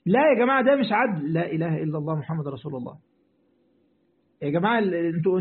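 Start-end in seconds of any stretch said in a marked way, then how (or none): 1.3-3.0 low, softened murmur to himself; real weary undertone; exasperated pious aside. Real, not acted. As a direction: drop the voice and sigh out the formula. Exasperated aside while pleading with audience.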